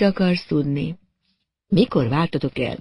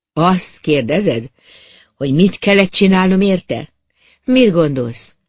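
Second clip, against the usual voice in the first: hard and cold; 3 semitones higher, 5 dB louder than usual. Acted. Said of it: "kemény tekintetű volt, merevek voltak az arcvonásai".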